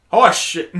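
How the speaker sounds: British accent, R dropped from horse. Shown as a demonstration. Friend testing the swear in a British accent. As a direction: give it a mock British pronunciation. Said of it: "say it in a British accent".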